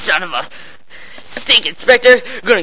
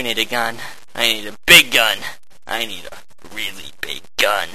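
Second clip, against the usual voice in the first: whisper; 10 semitones lower, 7 dB quieter than usual. Acted. Muttering about needing guns.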